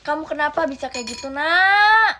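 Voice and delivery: anguished cry. Acted. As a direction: cry out at the child. Mother cries out at child. (ibu menjerit sedih ke anak)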